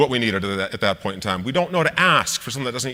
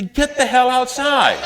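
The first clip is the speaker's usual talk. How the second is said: higher, slowed, half-laughing comeback; mock exasperated dad; 9 semitones higher, 4 dB louder, slower than usual. Father telling his gaming son to go outside, mock exasperated and laughing. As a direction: play the fed-up father with a grin, drawn out. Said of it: "You say".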